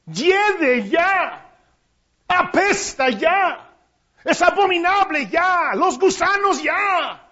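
a hint of a pleading woman; Mary begging at the tomb. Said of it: "Y María diciendo".

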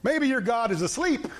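slow, high, sing-song jeer; mocking taunt. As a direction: taunt the priests with mock concern. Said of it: "Elijah mocking the Baalites".

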